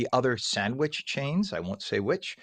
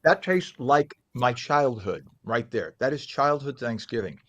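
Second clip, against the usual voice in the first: mouth full. Real, not acted. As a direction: still chewing while talking. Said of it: "forgive my mouth being covered".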